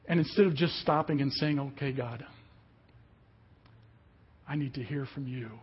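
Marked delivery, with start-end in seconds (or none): 1.6-5.5 humble. Acted. Acted humble surrender to God.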